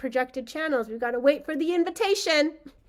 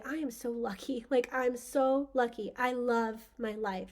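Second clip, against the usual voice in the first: grateful; 6 dB quieter than usual. Pretend. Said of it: "we just say".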